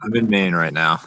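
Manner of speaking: muffled, warbly phone voice; like talking from underwater. Real, not acted. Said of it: "you sound like you're underwater".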